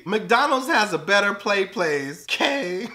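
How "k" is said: normal talking voice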